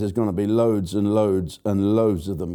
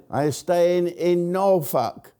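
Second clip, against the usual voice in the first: slow, higher put-on Japanese accent breaking into laughs; mock Japanese accent, laughing; 6 semitones higher, slower than usual. Host retells Benny Hill punchline, mock Japanese accent laughing. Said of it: "playing a Japanese bloke".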